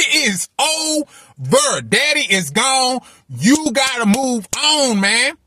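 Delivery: high, slow, insistent mirror self-talk; self-talk yelling. Retold or imitated. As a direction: drill it into yourself slowly. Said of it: "I remember just screaming at myself".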